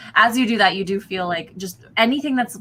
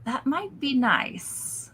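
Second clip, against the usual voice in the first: Barden voice; 8 semitones higher, much slower than usual. Acted.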